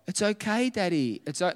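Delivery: lightly voiced child soothing Daddy; reassuring daughter. Voicing his daughter comforting him.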